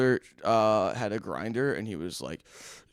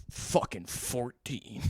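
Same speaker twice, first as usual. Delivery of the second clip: slow, flat, unimpressed drawl; lightly voiced bored cop; 2 semitones lower, 7 dB quieter, much slower than usual. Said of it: "the most bored suburban cop in the whole world".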